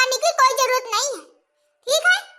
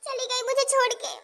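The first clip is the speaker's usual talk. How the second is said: softer, plaintive voice of an abandoned mother; forlorn lament; 2 semitones higher, 6 dB quieter than usual. Acted. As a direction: lament quietly that she has left you. (दुखी, दबी आवाज़ में)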